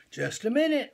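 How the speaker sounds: mother bear halts her cub in a high voice; mother's warning. Acted. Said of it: "replied Mommy Bear".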